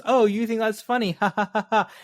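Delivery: imitated jovial laugh, pitched high; charming laughing. Cop charming the person he is questioning, laughing along. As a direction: laugh along disarmingly, then ha-ha heartily. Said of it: "he's laughing with them".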